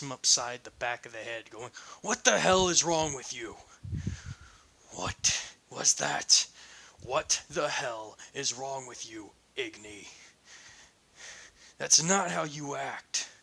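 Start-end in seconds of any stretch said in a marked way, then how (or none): 2.0-13.3 angry confrontation. Acted. Eugene confronting Ignatius after the fight, angry. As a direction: snap at him for the rampage.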